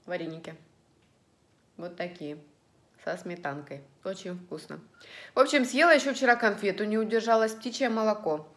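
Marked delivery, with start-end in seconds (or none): 0.0-4.8 talking while chewing; words round a bite of dumpling; mouth full. Real, not acted. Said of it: "А я уже ем".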